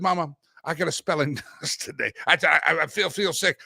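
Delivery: put-on light Southern kid accent, whiny and halting; a boy putting on a sick voice with a hint of a Southern twang; Southern kid faking sick. Kid tells mama he feels sick before a spelling test, light Southern accent. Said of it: "I didn't talk like a Southern kid. It's just good for dramatics here".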